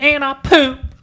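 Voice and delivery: high, slow, giggling confession; girlfriend laughing. Retold or imitated. Retelling his girlfriend's confession, high and slow through laughter.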